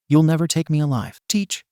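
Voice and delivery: hammed-up defiant cry while running off; yelled. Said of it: "he yelled".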